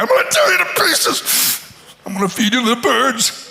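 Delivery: high, fast, half-crying threat; half-crying giant. Acted. Goliath threatens David, hammed-up and half crying. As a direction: blubber the threat like a giant tantrum. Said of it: "half crying".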